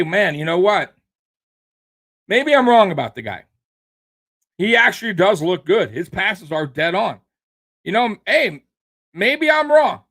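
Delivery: mock Nick Wright admitting he's wrong; sarcastic put-on concession, rising high at the end; mock imagined rival. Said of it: "You don't say".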